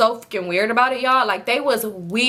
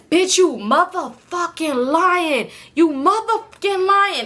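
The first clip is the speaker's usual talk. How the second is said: incredulous scoff; 6 semitones higher, slower than usual. Real, not acted. Calling out boyfriend's lie.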